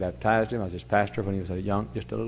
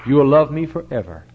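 preaching emphasis; 5 semitones higher, 8 dB louder than usual. Real, not acted. Preacher drives home his point.

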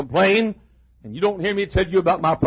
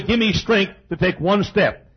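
slower, humble plea; humble prayer. Retold or imitated. Preacher voicing the right prayer, slow and humble. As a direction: ask slowly for one step. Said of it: "No, I say".

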